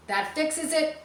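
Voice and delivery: terrified pirate gasping out the words; frightened gasp. Acted. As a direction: gasp it as if the ghost just proved itself. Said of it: "gasped another".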